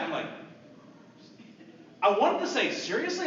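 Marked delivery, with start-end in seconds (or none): 2.7-3.3 high, incredulous question; retold shock. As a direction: blurt an inner disbelief. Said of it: "I was actually shocked".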